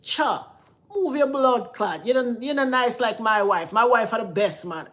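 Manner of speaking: loud Jamaican-style telling-off; imitated cursing out. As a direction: imitate an angry husband cursing her out. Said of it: "he would curse her out and say".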